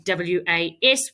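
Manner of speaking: W A S spelled slowly letter by letter; spelling out letters. Shown as a demonstration. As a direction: spell W A S one letter at a time.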